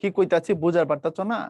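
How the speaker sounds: put-on a mild Old Dhaka accent demo; Old Dhaka dialect. Shown as a demonstration. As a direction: talk like an Old Dhaka local. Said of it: "এটা পুরান ঢাকার ভাষা".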